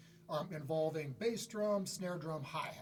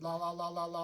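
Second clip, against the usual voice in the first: flat monotone. Shown as a demonstration. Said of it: "like a straight line".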